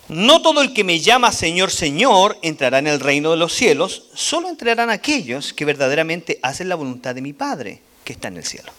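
emphatic scripture read. Acted. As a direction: proclaim the verse, fading at the end. Reads scripture aloud. (lectura bíblica enfática)

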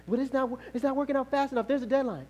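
high-pitched fretting, acted; anxious protest. Believer protesting to God about a deadline, mock-anxious. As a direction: plead as the worried believer.

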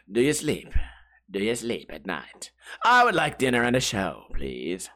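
lightly done sinister doctor; hushed, low villain invitation; Hannibal impression. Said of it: "the Hannibal guy's got that weird inflection".

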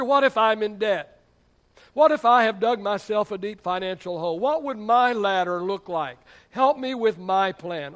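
mock a worried church member's appeal; pleading congregant. Church member asks the pastor about debt, loud pleading. Voices an anxious congregant's questions.

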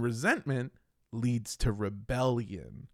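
slow low ominous drawl. Pretend. Dramatic slowed ominous delivery.

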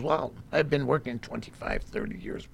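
very soft, badly done Spanish accent; lightly imitated Spanish accent, trailing to a whisper. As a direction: mumble it in a poor Spanish accent. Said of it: "That was a very bad Spanish accent".

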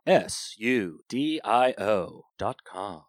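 "S U D I O" letter by letter, slowly; spelling it out. Shown as a demonstration. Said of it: "How do you spell that".

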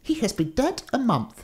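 high-pitched gatekeeper voice; warder. A narrator's reading. Warder giving the giant news, high character voice. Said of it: "said the warder".

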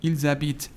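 ils habitent as "eel-zabit"; liaison with z. Shown as a demonstration. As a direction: link ils to habitent with a buzzed z.

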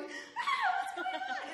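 very high, hammed-up squeal; mock panicked scream. Retelling screaming in the mud, high mock shriek. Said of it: "I just started screaming".

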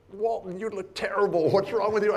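a hint of Dick's big excited holler; loud Dick Vitale voice. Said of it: "He says".

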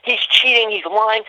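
accusing parents. Retold or imitated. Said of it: "calling me a cheater".

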